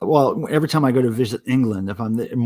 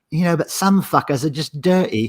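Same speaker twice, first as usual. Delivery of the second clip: put-on English accent; 3 semitones higher than usual. Retelling what a girlfriend from england said about bananas: imitating an english accent. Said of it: "in that great accent".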